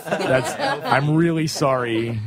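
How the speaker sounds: embarrassed, laughing sorry; laughing apology. Real, not acted. Host apologising to the band for his awful impression, laughing.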